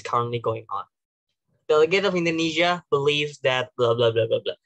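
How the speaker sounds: measured, formal delegate address; statistics-led opening. Shown as a demonstration. Delegate citing climate statistics to the chamber, formal and measured. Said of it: "Atau pakai statistical facts".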